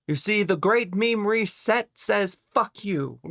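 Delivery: playful put-on voice; lightly high comic voice. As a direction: deliver it like a cheeky announcement. Bit about meme reset.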